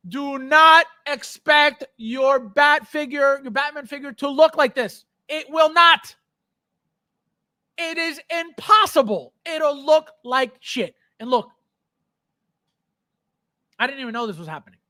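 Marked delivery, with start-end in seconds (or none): 0.1-10.9 emphatic warning. Real, not acted. Warning viewers.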